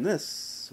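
"this" whispered with a long hissed s; drawn-out s like a snake. Shown as a demonstration. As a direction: hiss out the s of "this". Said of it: "See, I did it again".

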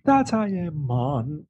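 hammed-up Jamaican "mon" on the end; mock Jamaican accent. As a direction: imitate a badly faked Jamaican accent. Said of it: "you gotta do the whole accent".

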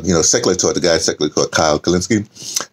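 ordinary talk

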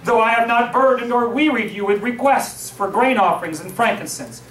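measured reading of the verses; solemn scripture reading. Acted. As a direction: read the verses steadily to the congregation. Reads scripture aloud.

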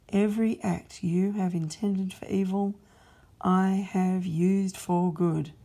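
a measured, commanding king rebuking his servant; God's stern voice. Acted. God rebukes Satan.

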